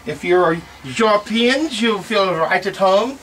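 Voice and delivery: slow, hammed-up bad French accent. Joking to European viewers about the bidet, slow bad French accent. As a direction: lay on a clumsy French accent, slowly. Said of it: "worst French accent of all time".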